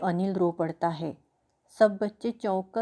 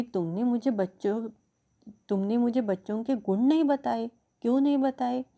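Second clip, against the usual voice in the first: rising anger, higher on the last question; angry reproach; 4 semitones higher than usual. Acted. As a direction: press her for an answer. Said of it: "रात रानी क्रोध से कहती है". (बढ़ते गुस्से से डांटते हुए)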